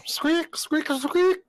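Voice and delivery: tiny squeaks way up high; rubbery high squeaky toy. Acted. Pet pops out squeaking.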